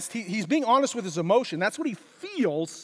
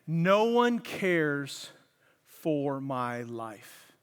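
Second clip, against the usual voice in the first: very slow, much softer, low and heavy; slow grieving reread; 7 semitones lower, 3 dB quieter, much slower than usual. Shown as a demonstration. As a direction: let each word sink in despair. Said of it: "let me read it again".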